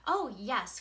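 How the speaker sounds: put-on a touch of excited children calling out; eager kids cry. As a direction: cheer like delighted kids. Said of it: "cried the kids".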